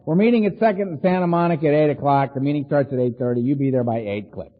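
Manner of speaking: curt orders. Retold or imitated. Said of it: "it'd be Donald".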